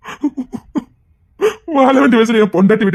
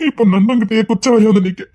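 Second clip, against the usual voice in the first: tearful lament. Acted. Father's lonely lament.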